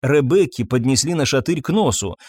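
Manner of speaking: plain reading voice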